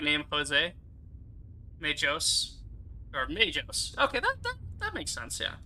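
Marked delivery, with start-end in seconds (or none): 1.8-4.0 MAJOS with a J sound for the G; soft G and long O in MAJOS; soft G variant. Shown as a demonstration. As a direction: say MAJOS as "may-johss". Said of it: "I say it like".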